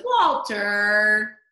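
loud accusing call of the name; pointed loud accusation; calling out blame. Acted. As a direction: pin the blame on the dog out loud. Uncle blames the dog.

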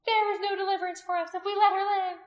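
high, loud accusation; ringing high-pitched denunciation; crying out. A narrator's reading. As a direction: cry it out to the crowd. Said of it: "Anomia cried out".

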